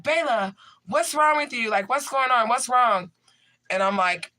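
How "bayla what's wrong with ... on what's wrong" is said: high, concerned parent voice; imitating worried parents. Imitating his parents asking what's wrong, high and worried. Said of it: "And they're like".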